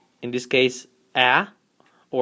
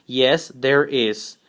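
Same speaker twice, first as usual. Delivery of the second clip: very slow, clear "Yes, there is."; slow short answer; 2 semitones lower, much slower than usual. Shown as a demonstration. Teacher modelling a short answer slowly. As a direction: draw out "Yes, there is." for learners. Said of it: "short answer, we say".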